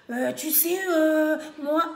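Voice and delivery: mock white French accent from the back of the throat; throaty imitated French accent. Mocking Congolese who change accent on the phone, throaty imitated French accent. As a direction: put on a throaty French accent with long euhs. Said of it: "tu parles même au fond de ta gorge".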